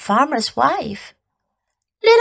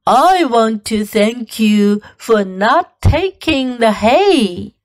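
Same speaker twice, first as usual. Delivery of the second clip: cow voice; slower than usual. Acted. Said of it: "she mooed".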